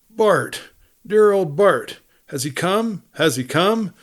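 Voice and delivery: high, breathless hope; calling out, hoping Dan's back; eager hope. A narrator's reading. Kate to the wolf dog Bart, high and eager.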